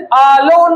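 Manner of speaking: অ্যালোন split into অ্যা and লোন; two-syllable demo. Shown as a demonstration. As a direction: say অ্যালোন in two distinct beats. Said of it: "এখানেও দেখো দুটো syllable".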